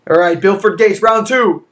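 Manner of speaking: loud, high hype call; hyped shout. Real, not acted. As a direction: psych up the dice. Hyped up for second roll.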